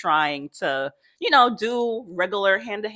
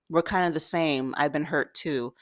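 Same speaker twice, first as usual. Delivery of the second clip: soft, lower retold confession; tender; 3 semitones lower, 5 dB quieter than usual. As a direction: share a hurt gently, quoting her. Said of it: "have a very tender moment".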